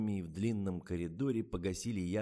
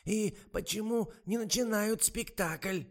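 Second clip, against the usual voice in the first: высокий, медленный старушечий голос; ласково уговаривает, как подслеповатая старушка; болтливая старуха; 12 semitones higher, 5 dB louder, slower than usual. A narrator's reading. (высокий тягучий голос старой актрисы)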